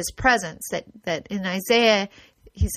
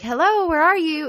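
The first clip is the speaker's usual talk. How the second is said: high, light sing-song hello; casual call set against a plea for help; 7 semitones higher than usual. Shown as a demonstration. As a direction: call out casually as if looking for someone. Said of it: "It's not a call like".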